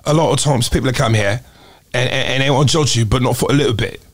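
casual attempt at a British accent. Shown as a demonstration. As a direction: put on a British accent, hesitantly. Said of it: "British accent".

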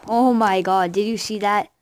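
loud excited outburst; adrenaline rush. Real, not acted. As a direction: blurt it out, thrilled. A big play in game.

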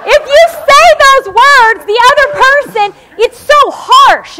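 high, loud, laughing and slowed; laughing through words. Real, not acted. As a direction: keep laughing as you talk. Laughing while explaining.

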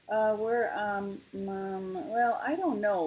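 stall, then admit it; floundering little bear owning up; hesitant confession. A narrator's reading. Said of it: "Lars confessed".

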